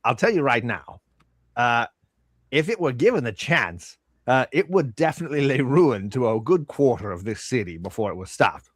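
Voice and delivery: lightly voiced shopkeeper, proud of his wares; a hint of a bragging merchant; boastful shopkeeper. Shopkeeper showing off the armor of invulnerability to customers, lightly boastful. Game master plays shopkeeper.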